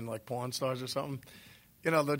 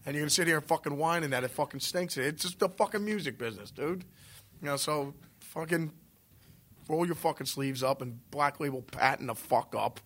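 emphatic rant; 4 semitones higher than usual. Real, not acted. Ranting about music business.

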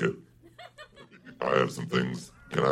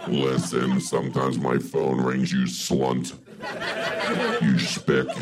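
feminine devil voice; slower than usual. Acted. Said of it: "devil voice".

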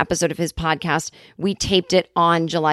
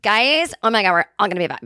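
mock Biden. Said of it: "he didn't say it like that".

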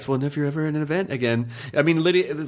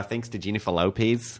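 put-on Australian accent sliding toward New Zealand; attempted Australian accent; 5 semitones lower, 3 dB quieter than usual. Host signing off, mock Australian accent. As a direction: sign off in a shaky-accurate Aussie accent. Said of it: "doing a little more New Zealand than Australian".

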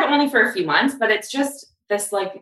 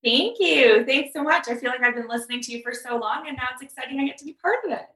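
realtor voice; 6 semitones higher than usual. Real, not acted. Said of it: "You're already doing your realtor voice".

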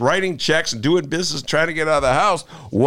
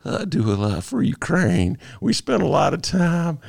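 a hint of Clinton's folksy charm; Clinton impression; 4 semitones higher than usual. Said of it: "How about if I do it as Clinton".

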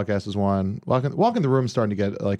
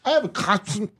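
silly high voice; 10 semitones higher than usual. Pretend.

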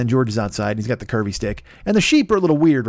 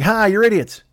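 high-pitched gloating jeer; mocking prankster's crow; taunting; 7 semitones higher, 4 dB louder than usual. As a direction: laugh in their faces as you say it.

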